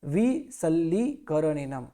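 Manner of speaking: विसल्लीकरणेनम slow with double ल; careful विसल्लीकरणेनम; slow clear syllables; slow recitation. Shown as a demonstration. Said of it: "विसल्ली नहीं है".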